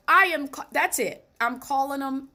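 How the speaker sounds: fired up, decided in a flash; excited resolve. Retold or imitated. Listening to the doctor on the radio, suddenly decides to call: excited. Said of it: "And I'm like".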